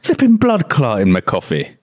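botched Jamaican accent, English vowels showing; attempted Jamaican accent. Shown as a demonstration. Learner trying out patois for his teachers, unconvincing Jamaican accent. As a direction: have a poor go at a Jamaican accent. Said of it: "Say it in the accent as well".

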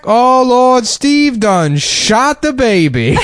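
high, slow comic wail; hammy shocked preacher cry; Steve Harvey impression. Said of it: "and he's like".

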